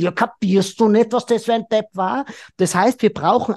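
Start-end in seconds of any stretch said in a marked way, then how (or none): 0.0-2.3 a hint of frustrated wife, a touch higher; lightly indignant, as if he just doesn't get it; mild exasperation. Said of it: "Dann hat die Frau das Gefühl". (leicht empört)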